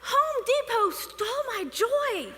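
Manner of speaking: slow, half-crying mock lament; mock heartbroken wail. Telling her sister Home Depot stole her joy, mock whimper. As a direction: whimper it like a wronged child.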